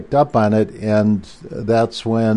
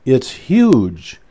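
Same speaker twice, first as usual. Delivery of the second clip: imitating an excited shout, pitched higher; excited secretary; 3 semitones higher, slower than usual. Secretary at Goddard blurting out big news over the phone, mock excited. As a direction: retell her breathless news with a touch of excitement. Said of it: "And she goes".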